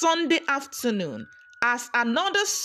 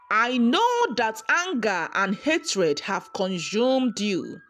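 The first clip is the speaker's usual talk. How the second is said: kind and gentle. Acted. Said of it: "The woman smiled kindly".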